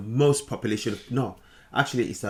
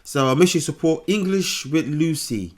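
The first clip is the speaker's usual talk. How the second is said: put-on British accent; 3 semitones higher, 4 dB louder than usual. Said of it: "Beautiful British English".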